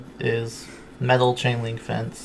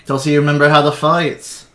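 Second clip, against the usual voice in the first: arena announcer; 3 semitones higher, 6 dB louder, slower than usual. Acted. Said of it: "He goes".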